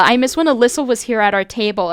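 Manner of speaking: lightly voiced country Valley Girl; a hint of mocking Southern Valley Girl; Southern Valley Girl accent. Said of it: "it's a Southern accent".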